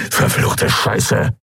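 slow, whispered hiss; hissed curse. A narrator's reading. Trapped pirate curses the situation, slow whispered hiss. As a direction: hiss the curse through the breath, drawn out. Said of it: "zischte Urdrak".

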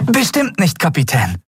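hohe, eifrige, bittende Stimme. Acted. (Miko bittet den Kapitän eifrig und hoch)

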